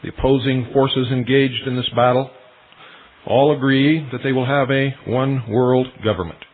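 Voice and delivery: normal talking voice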